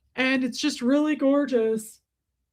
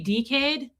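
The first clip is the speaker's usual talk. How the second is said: "dickhead" in an Australian accent, first vowel lengthened to "dee"; 2 semitones higher than usual. Shown as a demonstration. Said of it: "that's Australian".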